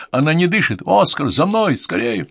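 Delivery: high, loud, alarmed call; urgent alarm. A narrator's reading. Doctor finds her not breathing, urgent alarm.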